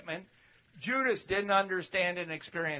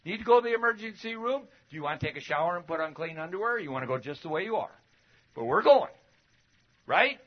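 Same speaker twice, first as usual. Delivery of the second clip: urgent; faster than usual. Retold or imitated. Husband rushing wife to hospital.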